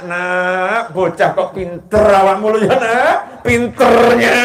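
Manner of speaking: mock scolding grandparent. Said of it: "Marahnya sama anak".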